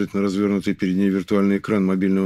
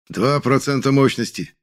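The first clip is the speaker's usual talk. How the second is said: raised, slow announcing call; shouted call; 5 semitones higher than usual. Acted. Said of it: "Голос Кана доносится до меня откуда-то издалека".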